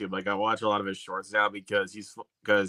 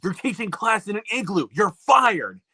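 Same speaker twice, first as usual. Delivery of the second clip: quoting the clip; 7 semitones higher, 4 dB louder than usual. Retold or imitated. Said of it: "when he's like".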